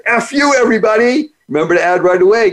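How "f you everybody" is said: mock cheeky greeting. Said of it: "you point your finger and say".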